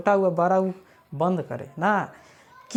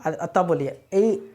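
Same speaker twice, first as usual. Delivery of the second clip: slow demo; 3 semitones lower, slower than usual. Shown as a demonstration. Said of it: "जीभ को रोक दीजिए नीचे की तरफ".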